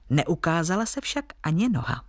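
plain reading voice

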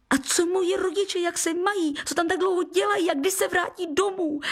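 high, fast burst of questions; boy blurting questions to the guest; all in one breath. A narrator's reading. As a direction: rattle them out without a breath. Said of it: "vychrlil jedním dechem".

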